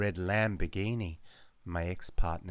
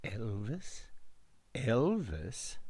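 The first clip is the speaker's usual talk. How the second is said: echoing call; 6 dB quieter, slower than usual. Acted. Echoing voices calling name.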